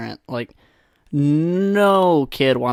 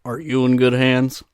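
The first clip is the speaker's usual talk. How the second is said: slow, measured announcer impression; a hint of calm commercial voice; soothing ad spokesman. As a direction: lightly imitate a reassuring insurance pitchman. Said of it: "that guy's a little more soothing".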